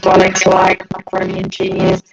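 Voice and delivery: robotic distorted stream audio; robotic glitchy mic. Real, not acted. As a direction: voice garbled like a robot by a bad connection. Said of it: "I apparently sound like a Dalek".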